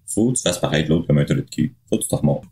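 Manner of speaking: talking with mouth full; chewing while talking. Real, not acted. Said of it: "c'est pas gentil de parler de la bouche pleine".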